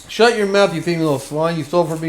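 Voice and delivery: lightly acted angry accuser, opening strong; a touch of hammed-up outrage. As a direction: scold a thief, starting high and easing off. Voices accuser of a thief.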